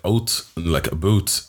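imitated Canadian "out" and "about"; Canadian accent. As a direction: mimic Canadian vowels on "out" and "about".

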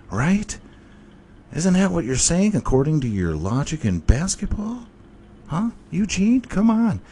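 high, sarcastic reasoning; mock debater. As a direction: argue it snidely, pitch climbing.

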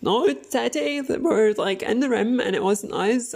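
high mock child insisting; kid pleading. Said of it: "And like".

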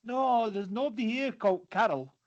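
a mild imitation of an English voice on the phone; English accent. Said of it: "a company in England".

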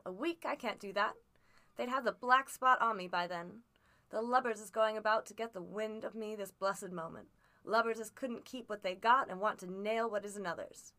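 put-on coaxing his boy as a worn-out old sailor; old sea captain. Captain rants at the lubbers.

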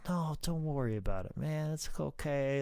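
soft, kindly retold reassurance; baby-faced reassurance. Veteran reassuring a young wrestler after the match, baby-faced. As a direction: gently let the kid off the hook. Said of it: "like, baby-faced it up".

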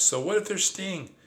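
high, cocky giggle; laughing. Acted. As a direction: laugh off the danger. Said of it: "My cousin laughs".

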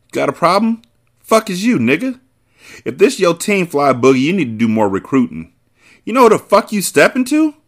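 gritted teeth threat. A narrator's reading. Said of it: "Carter asked through gritted teeth".

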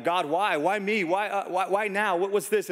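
rapid string of plaintive questions, pitch lifted; mildly hammed-up "why me" protest; mock complaint. People questioning God when tested, mock complaint.

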